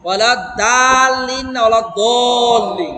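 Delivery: slow careful Quranic recitation of দলিন; drawn-out tajwid demo; correct Arabic ḍ. Shown as a demonstration. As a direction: say দলিন with thick ḍ, lips unrounded. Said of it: "দদ জবর দ".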